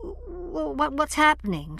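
stuttering, high frightened question; scared stammer. Acted. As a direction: stumble over the start in fear. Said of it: "She sounded scared".

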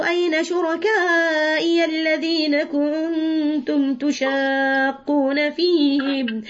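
slow drawn-out chant of أين شركائي; unhurried Quranic cantillation; Quran recitation. Acted. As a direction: recite the verse with tajweed.

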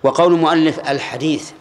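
ordinary talk, nothing marked

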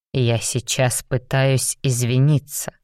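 slow, emotionless deadpan. Acted. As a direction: say it flat and slow. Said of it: "безэмоционально сказал Раум". (безэмоционально)

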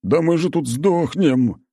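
медленно, с яростным рыком; зло, медленно, на выдохе; прорычал. Acted. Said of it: "прорычал он". (отчаянный рык раненого бойца)

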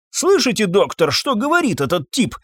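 high, outraged call to the doctor; indignant shout. Acted. Master to doctor about the groom, indignant shout. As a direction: point at the groom and cry out. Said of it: "кричал Фабьен".

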